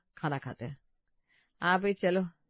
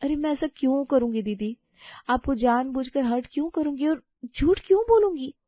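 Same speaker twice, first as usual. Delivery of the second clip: higher, louder indignant denial; distressed protest; 4 semitones higher, 5 dB louder than usual. Acted. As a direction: plead your innocence, agitated. Protests against being called a liar. (परेशान होकर सफ़ाई देना)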